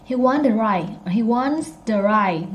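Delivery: "to drive" blurred into duh-drive; American reduced "to". Shown as a demonstration. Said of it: "if you want American accent".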